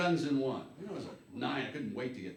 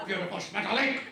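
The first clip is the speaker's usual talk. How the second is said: gushing delight; 8 semitones higher, 3 dB louder than usual. Acted. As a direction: coo over it with delight. Gushing at a smile.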